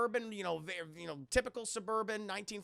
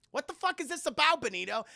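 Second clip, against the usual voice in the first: high, loud mock yell of disbelief; mock outraged yell; 6 semitones higher, 6 dB louder than usual. Nazi guests yelling at Mussolini in mock disbelief. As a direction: bark it at the dictator in mock outrage.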